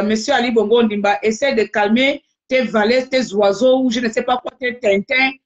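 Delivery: plus fort, défiant le président; lance-lui ça avec mépris; interpellation. Real, not acted. (interpellation méprisante au président)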